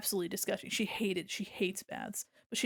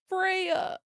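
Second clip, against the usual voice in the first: delighted; 10 semitones higher than usual. Real, not acted. Delighted by cat name.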